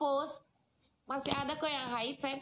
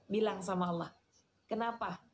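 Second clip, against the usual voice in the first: ordinary talk, nothing marked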